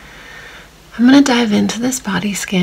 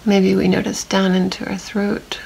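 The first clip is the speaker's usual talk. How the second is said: calm meditation voice with long silences; unhurried, even guiding, leaving long pauses to notice; guided body scan. Real, not acted. Meditation guide leading listeners through a body scan, calm and spacious.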